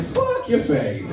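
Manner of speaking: slow, hammed-up shout of fuck your face; mock shouted insult. Comic shouting the real meaning of bless your heart. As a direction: yell it out slow as the hidden meaning. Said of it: "most Christian way of saying".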